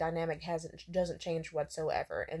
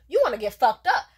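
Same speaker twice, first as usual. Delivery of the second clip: loud, raised-pitch challenge; mock threat; 5 semitones higher, 11 dB louder than usual. Woman exasperated at her date's non-answers, loudly threatening. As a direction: repeat it forcefully, spoiling for a fight.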